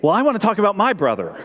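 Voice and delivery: put-on high girlish voice; little girl. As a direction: play an eight-year-old girl begging. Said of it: "Tess, being eight".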